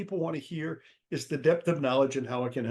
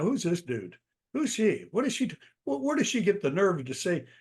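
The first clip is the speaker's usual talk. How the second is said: higher-pitched mock indignation; indignant audience; 5 semitones higher than usual. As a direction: voice a listener put off by the speaker. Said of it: "people are like".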